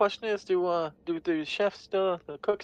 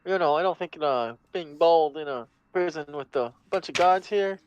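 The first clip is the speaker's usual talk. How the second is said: put-on southern accent. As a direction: slip into a loose Southern accent. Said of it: "I don't know why I'm doing a southern accent right now".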